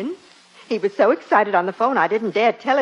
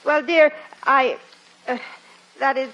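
halting, higher-pitched stalling; caught out; 3 semitones higher than usual. Acted. Wife explaining a new dress to her husband, halting and evasive. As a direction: stammer out a guilty excuse, with gaps.

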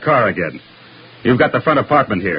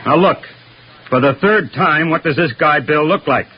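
exasperated demand, pitched up; raised voice; 3 semitones higher than usual. Acted. Detective asking a witness for the third time, exasperated. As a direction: press the witness, patience running out. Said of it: "I'm sorry I'm raising my voice".

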